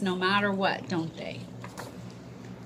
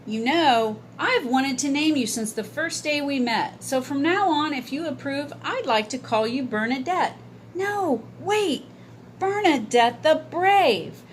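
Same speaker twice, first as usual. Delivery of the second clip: put-on young boy voice; 5 semitones higher than usual. Boy names the bird.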